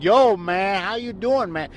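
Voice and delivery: clumsy imitation of African American slang speech; mock Black slang. Shown as a demonstration. Co-host explaining to the host, clumsy imitated African American slang accent. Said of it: "did you hear black slang?".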